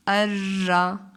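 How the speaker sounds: "अर्रा" drawn out very slowly, र rolled long; slow doubled demo. Shown as a demonstration. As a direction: roll the र long. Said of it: "किस तरह से पढ़ेंगे". ("अर्रा" को धीरे, र लंबा घुमाकर)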